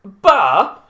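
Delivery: loud, high, baffled Bristol "Bar?"; exaggerated Bristol accent, puzzled and loud; mock Bristol accent. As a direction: echo "Bar" in disbelief, Bristol-style. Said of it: "And they were like".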